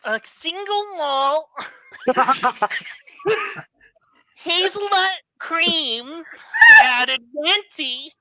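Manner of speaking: Carol Channing ordering a coffee, lightly done; Carol Channing impression. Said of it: "Carol Channing, uh, ordering a coffee".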